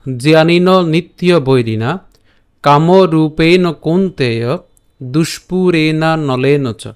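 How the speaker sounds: slow, measured Sanskrit chant; slow verse recitation. Shown as a demonstration. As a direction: recite each phrase slowly like a sacred verse.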